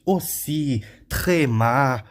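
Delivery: "Aussi, tremar" with weight on si and ma; last syllable stressed. Shown as a demonstration. Teacher showing where French words are strong, final stress. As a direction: lean on the endings of "Aussi, tremar". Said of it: "a última sílaba é a mais forte".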